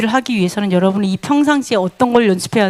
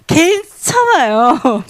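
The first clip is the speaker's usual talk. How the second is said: drawn-out content; 3 semitones higher, much slower than usual. Acted. Believer content with little.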